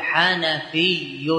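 drawn out carefully; slow demonstration. Shown as a demonstration. Teacher giving the result form to students, very slow. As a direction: model the word very slowly. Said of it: "فتقول".

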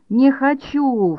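very slow, high wailing не хочу; boy refusing the puree, slow and high whine; childish whine. A narrator's reading. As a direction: drag out не хочу like a sulking child. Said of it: "вторил Ноэль".

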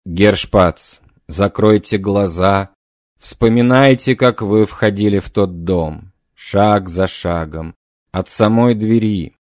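slow, calm trance guidance; slow hypnotic guidance. Acted. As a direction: lead him back step by step. Medium guides memory.

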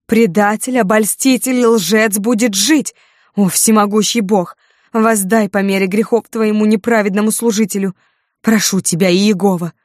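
high, loud, raving howl to God; frenzied wail. Acted. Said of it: "иступлённо взвыла она". (исступлённый вопль, высоко и громко)

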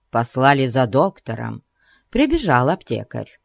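ordinary delivery

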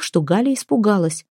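plain reading voice

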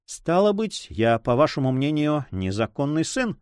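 usual speaking voice

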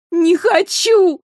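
high, loud slow wail; Майра wailing at her loss; desperate sobbing. A narrator's reading. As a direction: sob it out in despair. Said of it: "отчаянно зарыдала Майра".

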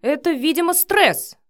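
a loud defensive bark; barked back. Acted. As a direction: snap it back at her hard. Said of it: "рявкнул в ответ Матвей".

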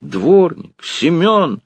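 the lady screams for the yardman; furious shout. A narrator's reading. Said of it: "закричала с искажённым от гнева лицом барыня". (барыня в гневе кричит дворнику, высоко и громко)

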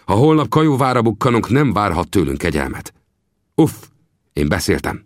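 Vinetú sternly calling the Kiowa chief to order; firm, commanding chieftain; stern rebuke. Acted.

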